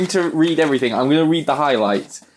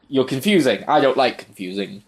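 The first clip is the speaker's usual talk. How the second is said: noir voice. Retold or imitated. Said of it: "It was noir voice in my head".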